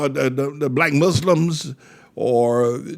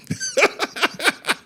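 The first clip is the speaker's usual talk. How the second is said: high, squeezed cackle; high mocking laugh. Preacher mocking men seen on television, high cackle. Mocking the pinched-nose talkers.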